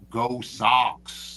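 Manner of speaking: lightly put-on Boston accent; playful Boston accent. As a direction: cheer on the team with a hint of Boston accent. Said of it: "In my best Boston accent".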